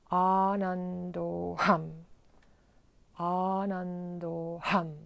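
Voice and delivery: meditative, drawn-out mantra with pauses between; mantra repetition. Shown as a demonstration. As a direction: chant each long-vowelled word evenly, easing down in volume. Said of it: "let's say this eleven times".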